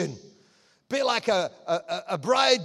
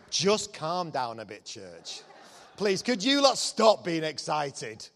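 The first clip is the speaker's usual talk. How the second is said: mock calming minister; 3 semitones lower than usual. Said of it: "going round churches going".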